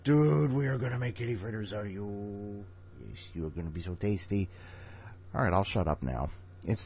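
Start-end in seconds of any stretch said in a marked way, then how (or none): 0.0-4.5 Second Life gamer voice. Retold or imitated. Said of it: "like I do when I'm on Second Life".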